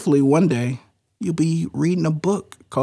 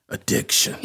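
whispered; 5 dB quieter than usual. Acted. Hushed mock-dramatic topic name.

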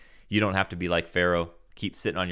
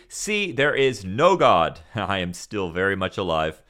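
gloating happily; 6 dB louder than usual. Retold or imitated. Atheist gloating to the audience, triumphant and loud. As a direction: crow over the crowd, laughing. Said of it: "this atheist said very happily".

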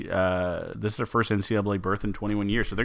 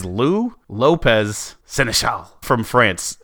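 French-flavoured name; 3 dB louder, much slower than usual. Pretend. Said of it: "I don't know how to do a French accent".

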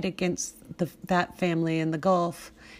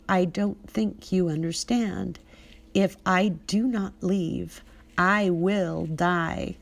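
dangerously sweet; slower than usual. Retold or imitated. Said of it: "said sweetly, smiling dangerously".

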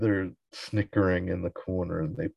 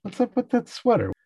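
suspicious pizza guy. Retold or imitated. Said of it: "He's like".

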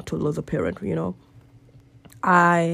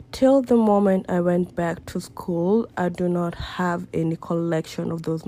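whisper; 3 dB quieter than usual. Real, not acted. Painful memory of mother's funeral.

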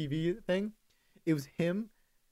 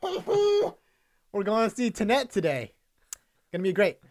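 hyped-up high Tom Cruise voice, settling down; Tom Cruise impression; 3 semitones higher than usual. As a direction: gush like an over-eager movie star. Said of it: "he kinda has that sound".

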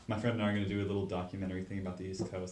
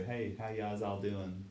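imitating a local; 5 dB quieter, much slower than usual. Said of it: "they just say".

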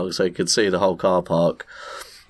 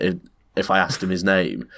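usual speaking voice

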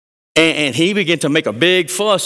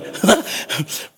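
joyful laugh; 8 semitones higher than usual. Acted. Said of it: "heading back to Jesus going".

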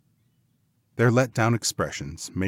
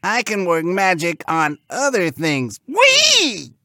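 high, loud showy pig; boast, then burst into a very high squeal; cartoon pig building to a gleeful whee; 12 semitones higher, 7 dB louder, slower than usual.

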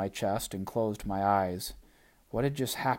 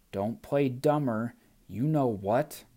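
put-on Gum Baby voice; 2 semitones higher than usual.

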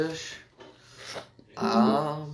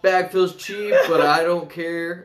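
smooth product pitch, selling hard; sleazy salesman. Acted. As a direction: read it like a pushy salesman. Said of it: "Put on your good salesman voice".

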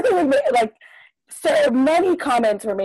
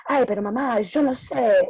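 imitated Argentinian Spanish; playful Argentinian Spanish impression; Argentinian accent. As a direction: do a teacher's Argentinian accent on the phone. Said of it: "her Argentinian accent would come out".

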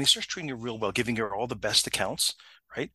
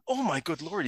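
retold shock, raised pitch; taken aback; 5 semitones higher than usual. Supervisor squinting at the photo, taken aback. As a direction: imitate a man taken aback. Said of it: "He takes him aback".

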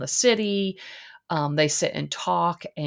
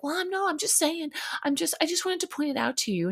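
mildly defensive; 12 semitones higher, faster than usual. Retold or imitated. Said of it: "Leah's like".

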